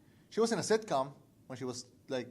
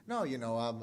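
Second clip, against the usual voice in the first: retold calm explanation, a little lower; 4 semitones lower than usual. Actress explaining her haircut to an interviewer, very calm. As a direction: imitate a patient, matter-of-fact answer. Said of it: "said very calmly".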